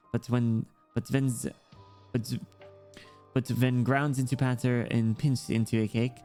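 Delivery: lightly voiced child with German accent; understated German-accented character voice; German-accented young girl. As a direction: chat like a German kid, lightly.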